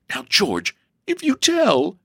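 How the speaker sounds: high-pitched tearful warning; sobbing. A narrator's reading. Sister begs brother not to tell, sobbing. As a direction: plead as if close to crying. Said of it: "sobbed Elsie".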